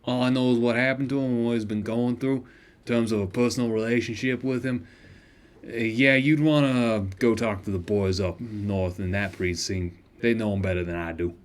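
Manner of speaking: gruff shopkeeper voice. Acted. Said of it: "doing this voice is shredding my vocal cords".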